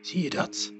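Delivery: very soft, voiceless whisper; barely audible whisper. A narrator's reading. Lies points out the animals to Frank, whispering. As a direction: whisper so softly you barely hear yourself. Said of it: "fluisterde Lies, zo zacht dat ze het zelf bijna niet hoorde".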